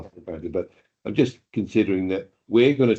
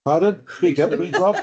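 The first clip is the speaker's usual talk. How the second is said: raised, higher voice asking to be heard; calling out; 9 semitones higher, 4 dB louder than usual. Real, not acted. Councillor calls to Rob to speak up, calling out. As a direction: call across the room, pitched up and louder.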